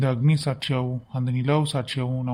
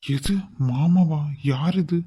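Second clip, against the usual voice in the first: startled; much slower than usual. Acted. Wakes up to wrong woman.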